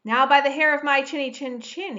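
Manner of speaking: loud furious roar; perfectly furious wolf. A narrator's reading. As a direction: roar at the brick house. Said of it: "he roared".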